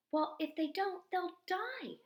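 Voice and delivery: cried out. A narrator's reading. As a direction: blurt it out, upset for the beetles. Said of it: "I cried".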